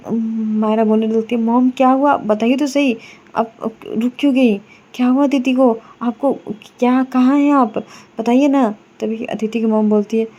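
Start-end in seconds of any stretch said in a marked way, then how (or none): 1.4-8.8 urgent, worried questioning; anxious pleading. Acted. Myra begs her silent mother-in-law to say what happened, anxious. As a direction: press her to speak, getting more scared.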